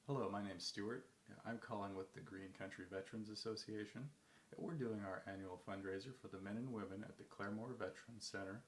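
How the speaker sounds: chill, measured phone pitch; ultimate calm. Shown as a demonstration. Cold caller pitching a veterans fundraiser, ultimate calm. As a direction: stay relaxed and even, easy lilt. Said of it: "So, ultimate calm".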